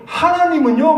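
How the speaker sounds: high rising emphasis on 하나님은요; emphatic rising call. Acted. Preacher rousing the congregation, 하나님은요 rising high. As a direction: lift 하나님은요 sharply up at the end.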